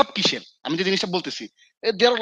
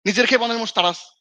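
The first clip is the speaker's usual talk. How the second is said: raised, mock-stern father's rebuke; father scolding; 4 semitones higher than usual. Father rebuking son for neglecting his own meal, mock scold. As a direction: replay dad's telling-off with a lifted voice. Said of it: "আব্বা খুব বকা দিত আমার".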